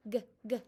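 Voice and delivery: short hard g sounds, one after another; repeated g sound. Shown as a demonstration. Teacher to kindergarten class, repeating the g sound. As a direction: tap out g, g for the class. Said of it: "the beginning sound in the word gate is g".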